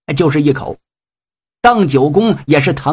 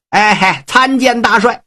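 higher, ingratiating greeting; fawning little man; 5 semitones higher than usual. Acted. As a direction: greet the boss like a sly toady. Tu Xingsun greets the marshal.

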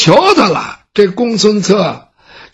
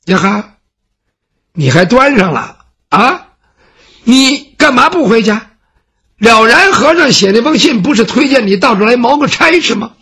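a lightly voiced servant, higher and exasperated; indignant servant; 3 semitones higher than usual. Baoxing scolds the scholar for refusing, exasperated. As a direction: scold him for putting on airs.

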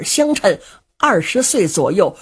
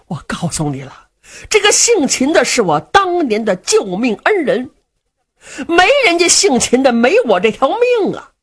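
lightly voiced fat man, reproach building; reproachful fat brother. Du Cha accuses Luo Cheng of heartlessness, reproachful. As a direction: guilt him, rising toward desperation.

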